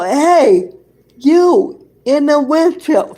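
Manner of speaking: imitated security guard hailing someone; calling out. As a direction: call across to a stranger.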